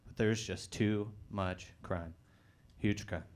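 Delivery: slow Trump-like drawl on huge. Retold or imitated. Comic riffing on Chicago crime as a low mock Trump. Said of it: "Sleepy Joe".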